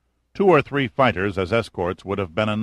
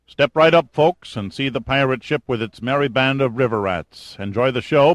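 mock carnival barker; 4 semitones higher than usual. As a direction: ham it up like a fairground barker. Theatrical bow, mock barker patter.

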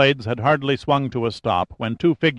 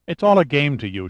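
sharp angry outburst, higher; lashing out; 5 semitones higher than usual. Acted. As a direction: snap it out in anger. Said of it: "she lashed out".

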